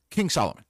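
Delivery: "King" pushed up and falling; stress on King. Shown as a demonstration. Repeating his point to viewers, stress on "King". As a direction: lean on "King" in "King Solomon". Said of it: "If you're gonna pick out".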